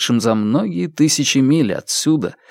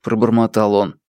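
ordinary talk, nothing marked

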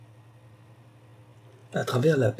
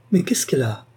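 put-on puzzled child; 3 semitones higher than usual. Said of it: "sa voix aiguë cria".

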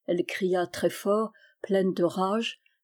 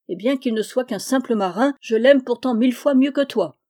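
raised, emphatic declaration; defiant; 4 semitones higher, 4 dB louder than usual. Acted. Girl telling him she loves Yann more, defiant. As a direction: build to a louder, higher boast.

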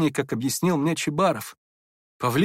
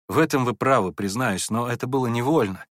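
usual speaking voice

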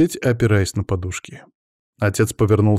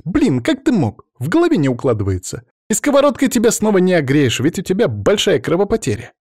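high, loud, flaring scolding; exasperated young woman; 9 semitones higher, 4 dB louder than usual. Acted. Natasha scolds the wounded Raf: high, exasperated flare-up. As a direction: she flares up, half angry, half relieved.

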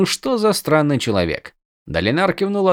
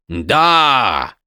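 shouting over rain. A narrator's reading. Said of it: "прокричал он сквозь шум дождя".

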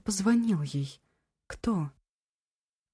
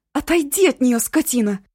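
high, loud desperate yell; yelling at the top of her voice; 7 semitones higher, 8 dB louder than usual. A narrator's reading. Eva yelling at the man holding a knife, loud. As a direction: scream him off her. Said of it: "Заголосив во всё горло".

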